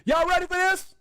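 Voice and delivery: high, loud hype-man call; announcer-style hype; hyped-up teaser. Real, not acted. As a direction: pump up the crowd. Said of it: "I got a little quote for you".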